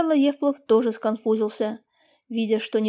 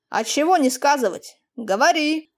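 a touch of firm insistence; insistent; 3 semitones higher than usual. Acted. Master presses the young peasant to speak, insistently. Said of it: "сказал отец настойчиво".

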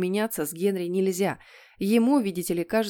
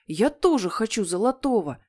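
mildly wailed demand; childish howl; 3 semitones higher, 3 dB louder than usual. Acted. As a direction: whine it like an envious kid. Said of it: "взвыл он". (подвывая от обиды)

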